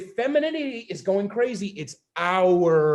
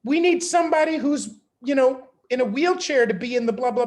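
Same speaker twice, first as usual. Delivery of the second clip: mocking voice; 6 semitones higher, 5 dB louder than usual. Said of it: "stand up and go".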